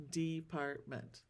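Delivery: department drawn out slowly, syllable by syllable; counting the syllables in department slowly. Shown as a demonstration. Teacher counts syllables, slowly drawn out. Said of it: "How many syllables are in each word?".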